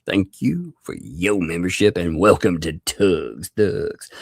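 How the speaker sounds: a hint of ring announcer, words stretched. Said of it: "I like doing my announcer voice".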